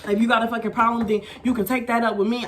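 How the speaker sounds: a touch of a white manager's voice, a bit fast; mock the manager lightly; light white-guy impression of the manager; imitating white manager. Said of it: "you know how white people be talking".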